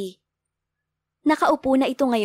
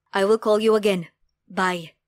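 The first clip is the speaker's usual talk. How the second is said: man's voice; 2 semitones lower than usual. A narrator's reading. A hint of the father ending a phone call. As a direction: end a phone call briskly.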